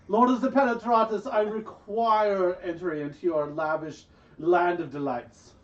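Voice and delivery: half-hearted fake posh accent, mildly overplayed; shitty accent. Player addressing Lord Nauticus in a bad fake accent. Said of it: "I say this in my shitty accent".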